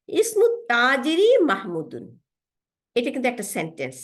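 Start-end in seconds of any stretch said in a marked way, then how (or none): 0.1-2.0 slow Arabic reading. Shown as a demonstration. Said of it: "দেখেন".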